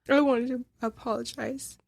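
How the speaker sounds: quoting an apology, a touch choked up; holding back tears. Retold or imitated. Reviewer quoting the film's apology, holding back tears. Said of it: "struggling to hold back my tears".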